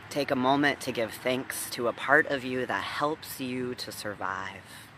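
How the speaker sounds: deliberate meditation leading with long pauses; guided meditation. Real, not acted. Minister inviting scattered listeners to breathe together, guided meditation. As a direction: guide listeners into breath and body, firmly and unhurried.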